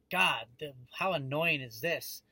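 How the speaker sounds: retold exasperation, slowing on the complaint; drawn-out, annoyed grumble; angry customer. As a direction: imitate a fed-up woman, mildly. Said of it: "how angry is this woman".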